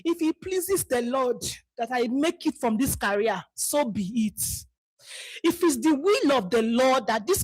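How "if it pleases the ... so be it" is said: softer, with a sighing, resigned piety; mock pious resignation. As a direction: parody a meek, passive prayer. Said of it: "We are no longer saying".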